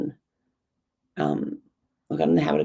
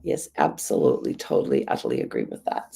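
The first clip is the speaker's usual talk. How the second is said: hoarse, croaky throat; 5 semitones lower than usual. Real, not acted. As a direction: talk through a croaky throat. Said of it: "my croaky voice".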